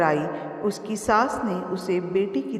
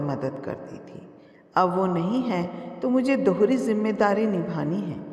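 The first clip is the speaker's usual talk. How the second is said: affectionate. Acted. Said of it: "Ram बाबूजी प्यार से बोले".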